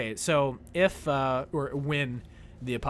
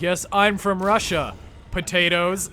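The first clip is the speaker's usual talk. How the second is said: slow, loud pretend Russian accent; hammed-up Russian speaker; mock Russian voice; 4 semitones higher, 9 dB louder than usual. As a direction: put on a playful Russian accent, slowly. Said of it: "You could be like".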